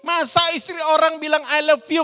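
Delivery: high, loud shocked recoil; horrified shudder. Acted. Yusuf shudders at a married woman's advance, aghast and loud. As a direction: exclaim in scandalised alarm. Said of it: "Yusuf jadi gemetar".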